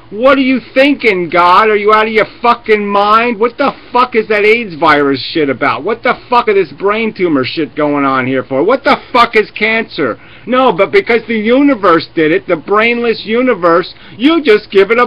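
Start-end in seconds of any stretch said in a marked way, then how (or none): 0.1-10.2 higher, indignant tirade at God; mock outraged rant. Imagined believer ranting at God, indignant and raised. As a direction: rail at God as if he lost his mind. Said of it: "you'd be saying".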